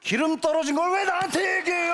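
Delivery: mock-offended comic shouting; indignant outburst. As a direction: demand why it is his problem. Customer takes remark as oil accusation.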